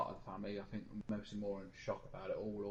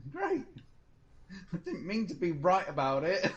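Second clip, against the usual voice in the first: rueful outburst; 7 semitones higher, 7 dB louder, slower than usual. Retold or imitated. Retelling reaction to bad news.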